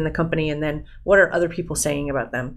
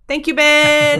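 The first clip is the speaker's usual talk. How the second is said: excited; 9 semitones higher, 6 dB louder, much slower than usual. Real, not acted. Thanks after praising the episode.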